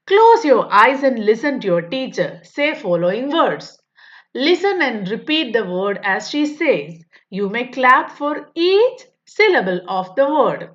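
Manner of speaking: slow, careful reading of the question; textbook read-aloud. Acted. Teacher reading the workbook question to pupils, slow and deliberate. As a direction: read each word out slowly for young pupils.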